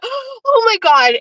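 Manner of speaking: very high, slow awed squeal; breathless high squeal. Retold or imitated. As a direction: gasp then squeal in disbelief. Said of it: "And then I went, gasps".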